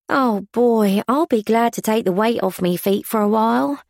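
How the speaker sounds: sinking gratefully onto the bench after a long shift; weary maid Alice. A narrator's reading. Maid to the head waitress, tired but cheerful.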